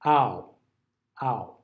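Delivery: ow said as ah gliding to oo; ow drawn out, open ah sliding to oo; ow diphthong demo. Shown as a demonstration. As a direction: model ow, ah gliding into oo. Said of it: "So it looks like that".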